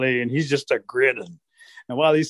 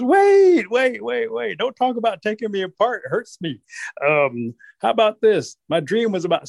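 frantic Rabbit; 8 semitones higher than usual. Acted. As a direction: beg for your life, higher. Rabbit pleads for his life.

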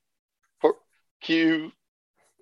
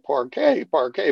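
butter commercial imitation. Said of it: "that old butter commercial".

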